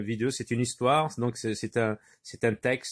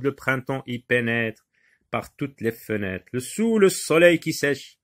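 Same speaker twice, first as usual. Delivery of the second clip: measured verse reading for a class; poem recitation. Acted. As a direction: recite it line by line.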